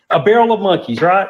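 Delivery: laughing loudly through the words; cracking up at his own story. Real, not acted. Man laughing off eating dog food, laughing loud.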